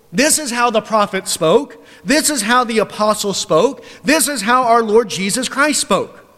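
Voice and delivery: loud, high preaching; full-force pulpit voice. Acted. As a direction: press it home to the congregation. Preacher rising in conviction.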